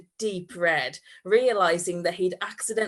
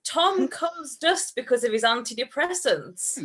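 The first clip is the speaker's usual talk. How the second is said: higher, barely holding back laughter; giggly reread; 6 semitones higher than usual. Real, not acted. Reader retrying the line, suppressed laughter. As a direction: push through the giggles. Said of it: "rereads line after laughing fit".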